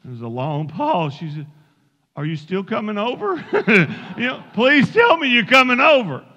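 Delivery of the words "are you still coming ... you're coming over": pleading. Acted. Desperate mother to the wrong-number caller, pleading. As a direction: beg comically, as if desperate for rescue.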